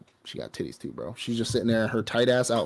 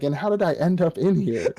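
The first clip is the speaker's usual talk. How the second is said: put-on confused girl voice; 7 semitones higher, 4 dB louder than usual.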